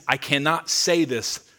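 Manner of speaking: "I cannot say this" slowed, with deliberate weight; emphatic insistence. Retold or imitated. Apostle insisting to young pastor on "I cannot say this", slow and emphatic. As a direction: press slowly on each word of "I cannot say this". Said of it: "with any more emphasis".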